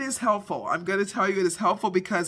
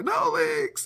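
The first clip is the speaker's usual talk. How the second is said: joyful yell. Retold or imitated. Wife yelling out the door to the family, joyful yell. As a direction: shout it out the door in triumph. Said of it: "I yell out the door".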